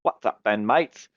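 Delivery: put-on a light London-accented guard. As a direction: play the guard as a London geezer. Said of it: "I see it as kinda London. So I'll be like".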